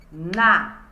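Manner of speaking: "Natural" as na, tu, ral, widely spaced; syllable per clap. Shown as a demonstration. Teacher clapping out syllables for pupils, "Natural" one syllable per clap. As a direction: beat out "Natural" one firm syllable at a time. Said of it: "Cada palma que eu bater".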